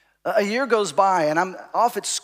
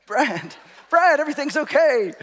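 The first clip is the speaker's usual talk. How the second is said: high, loud call to reassure someone; re-enacted shout across the room; 8 semitones higher, 4 dB louder than usual. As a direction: holler it over to a spooked acquaintance. Calling to Brad across restaurant.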